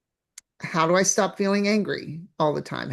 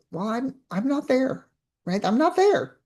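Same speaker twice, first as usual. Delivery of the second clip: rising high, brushing it off; dismissive not-me voice; 5 semitones higher than usual. Pretend. Coach mimics a viewer who isn't struggling, high and dismissive. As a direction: wave it away lightly, climbing up high. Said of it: "Some of you are gonna go".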